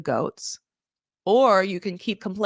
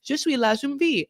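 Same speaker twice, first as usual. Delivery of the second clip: higher-pitched put-on French; imitated French accent; 6 semitones higher than usual. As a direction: lightly mimic her French accent. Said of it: "try and do her voice in some sort of accent".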